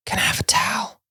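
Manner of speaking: put-on high whisper of a small child; quiet little girl. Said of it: "intentionally really quietly".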